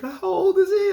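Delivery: high mock coworker voice, concerned; coworker asking. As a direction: lift into the friend's voice, asking gently. Coworker asking about the dog.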